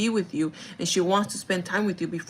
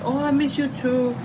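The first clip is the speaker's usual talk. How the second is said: higher imitated grandma voice; grandma's reply; 6 semitones higher than usual. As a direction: lift the pitch to voice a grandma. Voices grandma answering a hug.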